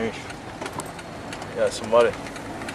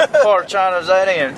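high mocking hick voice; hammed-up dumb redneck; 7 semitones higher, 3 dB louder than usual.

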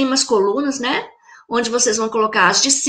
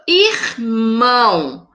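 "Irmão" very slowly, syllable by syllable, stretching "mão"; split into syllables; 2 semitones lower, much slower than usual. Shown as a demonstration. Teacher splitting a word for pupils, "Irmão" slowly syllable by syllable. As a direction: break "Irmão" into two long, separate syllables. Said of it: "Vamos separar em sílaba".

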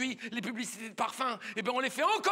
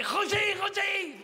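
high, loud swooping calls; lovestruck woman calling; 9 semitones higher, 4 dB louder, slower than usual. Acted. Oula arrives calling Roger, lovestruck cry. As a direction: cry out the beloved's name with abandon. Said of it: "elle lui a fait".

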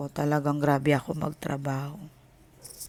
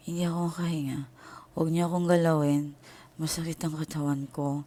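faint hurried plea; 4 dB quieter, faster than usual. Retold or imitated. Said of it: "ganun yung salita ko".

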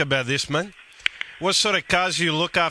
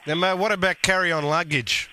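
Guido prank character. Acted.

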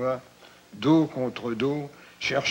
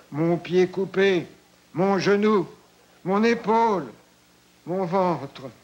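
crying out in pain; 4 semitones higher than usual. Acted. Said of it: "Il crie maintenant".

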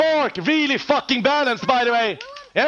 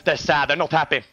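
mock motivational speech; 10 semitones lower, much faster than usual. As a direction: hush into a lower pretend coach voice. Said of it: "Time for some motivational speech".

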